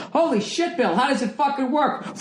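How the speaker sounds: a fan whispering along; excited listener voice. Acted. Voicing a listener reading along.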